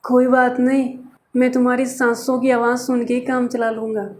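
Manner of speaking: lightly mocked, soft lovesick boyfriend; mushy boyfriend. Teacher mimics a lovesick boyfriend on the phone, soft. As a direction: say it dreamy and soft, half mocking. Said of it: "फिर क्या बोलते हैं पीछे से".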